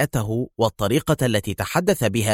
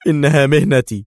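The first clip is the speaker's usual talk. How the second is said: very tense; 4 semitones higher, 6 dB louder than usual. A narrator's reading. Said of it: "أجابها في توتر بالغ".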